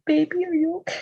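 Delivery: high, fairly soft fussing; mock-concerned cooing. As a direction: fuss over someone like a hurt baby. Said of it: "seeing him broken like this is like".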